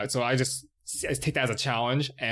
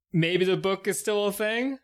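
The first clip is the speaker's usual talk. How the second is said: raised, higher-pitched shout to companions; calling out to the party; 8 semitones higher, slower than usual. Acted. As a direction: call it out slowly across the group. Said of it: "so I shout out to the party".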